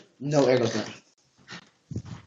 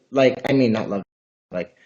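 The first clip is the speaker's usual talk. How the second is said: stumbling, halting over the words; stuttering; 2 semitones lower than usual. Real, not acted. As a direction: get tangled up and stutter. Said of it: "I feel like I'm stuttering".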